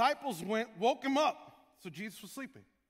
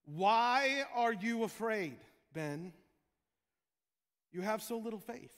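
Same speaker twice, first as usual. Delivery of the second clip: gentle rebuke; 5 dB louder than usual. Retold or imitated. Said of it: "He responded".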